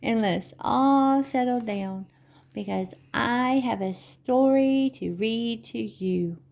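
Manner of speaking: put-on measured sing-song rhyme for children; Begrüßungsreim. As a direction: recite it rhythmically, lingering on key words. Recites their little gathering poem.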